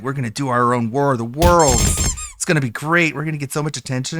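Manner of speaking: hammed-up scheming host; mock boomer radio host. Mocking AM radio folks plotting a stunt, lightly voiced. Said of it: "wouldn't be like".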